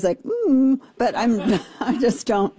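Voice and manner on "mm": short, put-on sad "mm"; mock sad whimper. Host showing her sad-face noise instead of crying, mock sad. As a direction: pretend a little pouty moan. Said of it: "I might make a sad face".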